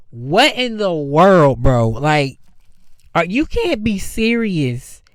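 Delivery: slow, drawn-out exasperated reaction; disappointed disbelief. Retold or imitated. Moviegoer reacting to the changed character, disappointed disbelief. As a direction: drag it out in let-down disbelief. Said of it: "in theaters, just disappointed".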